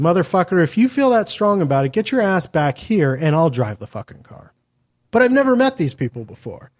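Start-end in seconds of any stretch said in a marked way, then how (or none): 0.0-4.5 mock angry rant. Ranting at the driver.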